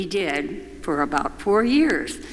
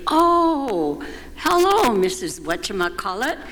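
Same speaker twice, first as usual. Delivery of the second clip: sing-song mock-formal hello, much higher and louder; silly greeting; 5 semitones higher, 3 dB louder than usual. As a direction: greet a friend in a hammed-up grand-lady voice. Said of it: "greeted each other with these silly names".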